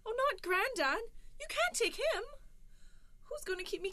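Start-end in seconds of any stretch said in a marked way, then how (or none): 0.0-2.2 a touch of mock crying; higher, wailing plea; pleading. Wife begs Death to spare Granddad, mock crying.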